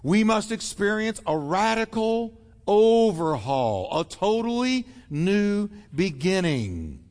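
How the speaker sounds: firm, insistent quote of Jesus; emphatic preacher voicing Jesus. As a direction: press every word home with conviction. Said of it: "Jesus was so emphatic when he said".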